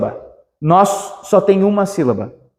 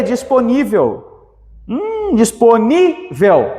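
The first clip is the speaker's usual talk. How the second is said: slow syllable split; 3 semitones higher, much slower than usual. Shown as a demonstration. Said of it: "teacher separates syllables".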